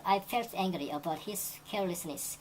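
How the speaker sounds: very slow, careful textbook read; slow example reading. Shown as a demonstration. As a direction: lay out every word slowly for learners. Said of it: "teacher reads example sentence". (천천히 읽는 예문)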